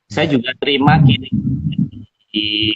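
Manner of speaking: breaking up like a bad connection; choppy cut-out audio; glitching robot. Real, not acted. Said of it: "Suaranya putus-putus".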